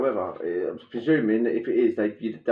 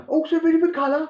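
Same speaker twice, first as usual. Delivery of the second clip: Wizard of Oz guard voice; faster than usual. Retold or imitated. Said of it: "like the geezer in The Wizard of Oz".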